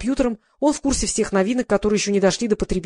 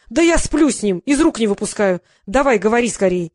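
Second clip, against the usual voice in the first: громко, с напором; возмущённо и напористо; громкое возмущение; 4 dB louder than usual. Acted. Возмущённый Сеня торопит. (Сеня возмущён и торопит: громко)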